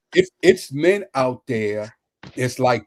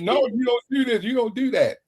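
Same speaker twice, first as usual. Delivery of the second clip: mock scolding; 9 semitones higher than usual. Mimicking people who judge others.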